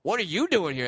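lightly put-on comedian impression; a loose imitation of a puzzled star; Dave Chappelle. Comedian questioning a fan at the bar, bad impression. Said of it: "do a terrible Dave Chappelle impression".

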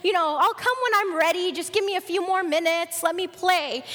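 lightly voiced defiant child; protesting son. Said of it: "the son said".

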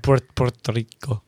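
"Puerto Rico" with trilled Spanish r. Shown as a demonstration. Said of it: "You're not saying it right".

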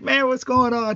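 high, put-on buddy voice for a friend; Chris Paul greeting. Friend waiting outside the locker room, high, put-on greeting. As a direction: pitch way up, a casual teammate popping in. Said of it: "it's Chris just going like".

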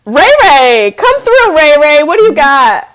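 cheering someone on; excited call-out. Real, not acted. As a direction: hype up the newcomer. Hyping up the person brought on screen.

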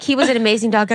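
lightly voiced therapist; therapist quote. Therapist speaking of the dog that died, mild imitation. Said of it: "She's like".

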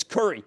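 Kerry pronounced like "curry"; local accent pronunciation. Shown as a demonstration. Host joking about his accent, Kerry said as "curry". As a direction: say the name Kerry as "curry", first vowel as in "fur". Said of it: "the way I pronounce curry".

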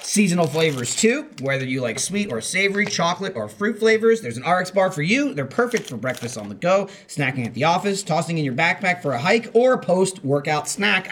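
bright commercial pitch, rising; ad read. Acted. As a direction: pitch it like an upbeat ad. Reads the sponsor ad.

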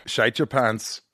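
imitation Scottish on "Shite your pants"; Scottish accent. Host copying guest's correction, imitation Scottish accent. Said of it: "that sounds pretty Scottish".

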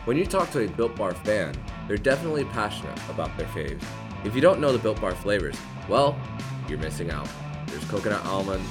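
upbeat sponsor read over music; hard sell ad. Acted. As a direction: sell it like a radio ad. Host reads sponsor ad.

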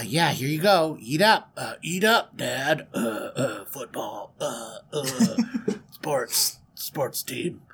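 badly faked jock brother; fake brother voice. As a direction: fumble through a put-on tough-guy voice. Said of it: "put on your best brother accent".

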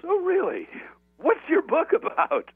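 high-pitched, curious official; imitated border official. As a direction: play a border guard's intrigued questioning. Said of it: "he's got this funny accent".

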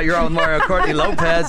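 loud, hammed-up country twang; country accent. Host reading the show ID in a country accent. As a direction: play the cowboy radio host. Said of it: "I have a country accent right now".

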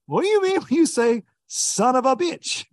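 imitated Japanese accent. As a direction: mimic the confused co-angler. Japanese angler voiced, asking.

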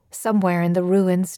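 ordinary delivery

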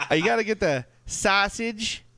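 slow, high, laughing Chicago accent. Shown as a demonstration. Cohost asked how to do a Chicago accent, laughing through it. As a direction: ham up a Chicago sausage order while laughing. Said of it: "how to do a Chicago accent".

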